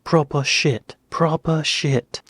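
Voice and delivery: put-on drilling two words in a British accent. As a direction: try out a British accent, word by word. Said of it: "an American doing a British accent".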